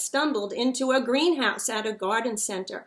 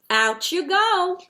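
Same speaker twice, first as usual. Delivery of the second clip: high, louder order to get out; gruff order; 8 semitones higher, 6 dB louder than usual. A narrator's reading. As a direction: shoo him out. Gardener shoos the snowman out.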